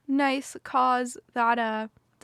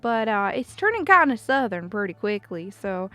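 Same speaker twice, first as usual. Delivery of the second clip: rough Australian accent slipping into southern. Shown as a demonstration. Streamer doing an accent mashup, Australian turning southern. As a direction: start Australian, drift toward a southern twang. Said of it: "more of an Australian accent right now".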